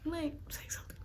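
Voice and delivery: hushed prodding of a friend; soft, covert urging; urgent aside. Retold or imitated. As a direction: say it under your breath. Retold urging friend under her breath.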